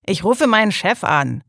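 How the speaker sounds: loud threat; threatening. Acted. Worker threatens to call his boss, loud and threatening. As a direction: warn him you'll call the boss. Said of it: "drohte der Arbeiter".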